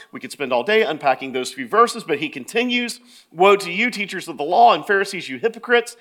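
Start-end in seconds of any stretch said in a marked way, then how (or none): 3.3-6.0 high, driving denunciation; raised, forceful scripture reading; in-their-face rebuke. Acted. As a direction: proclaim the accusation without letting up. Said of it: "Jesus gets in their face".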